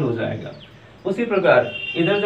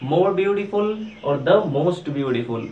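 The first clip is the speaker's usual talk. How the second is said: more beautiful और the most beautiful read out very slowly; slow recital of forms; much slower than usual. Shown as a demonstration. Teacher reciting the three degrees for students, very slow. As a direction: lay out each form slowly and clearly. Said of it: "beautiful का तीनों degree क्या हो गया".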